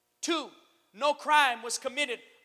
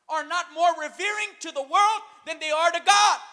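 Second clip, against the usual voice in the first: raised preaching voice, loud at the close; forceful warning; 3 semitones higher, 6 dB louder than usual. Real, not acted. Preacher warning the church about its priorities, forcefully. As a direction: build to a shout on "God".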